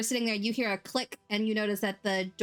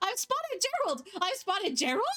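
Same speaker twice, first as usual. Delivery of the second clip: tiny, very high, squeaky spider voice; 11 semitones higher than usual. Narrating a game scene, voicing a spider that starts following someone, tiny spider voice. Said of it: "in a tiny spider voice".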